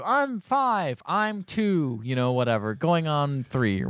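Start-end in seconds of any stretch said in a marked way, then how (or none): 0.0-2.0 lightly voiced, higher little kid. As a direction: pitch it up a bit like a small child. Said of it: "she has two kids with her".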